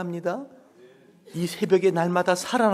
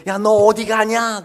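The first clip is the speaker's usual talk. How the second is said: loud, slow call across the sky; shouting quail; 6 semitones higher, 11 dB louder, slower than usual. Acted. A quail shouting at a runaway quail. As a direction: yell after a quail flying off.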